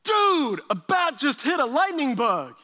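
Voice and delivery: high, loud amazed "whoa dude"; excited guy. Retold or imitated. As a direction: blurt it out like a stunned friend on a patio. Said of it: "some guy goes".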